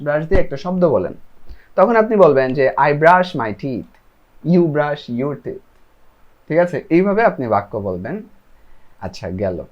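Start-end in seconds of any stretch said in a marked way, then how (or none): 2.8-5.6 each word slow and separate; slow model sentence. Shown as a demonstration. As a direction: spell it out slowly for learners. Teacher models answer sentence.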